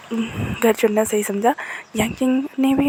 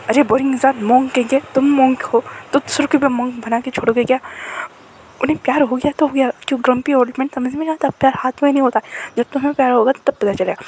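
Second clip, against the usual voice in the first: mock scolding; 3 semitones higher, 3 dB louder than usual. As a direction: tease him loudly like an annoyed niece. Quarrel between uncle and niece. (चिढ़ाते हुए ऊँची आवाज़ में डाँटना)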